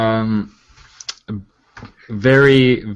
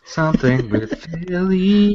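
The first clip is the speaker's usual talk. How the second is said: tag; 3 semitones higher than usual. Retold or imitated. Echoes host's phrase slowly, amused.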